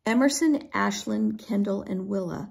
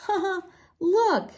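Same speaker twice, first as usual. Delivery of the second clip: high, drawn-out acted chuckle; amused, high-pitched "ha ha"; chuckling; 10 semitones higher, 3 dB louder than usual. A narrator's reading. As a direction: chuckle as you call attention. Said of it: "Ashlyn began to chuckle".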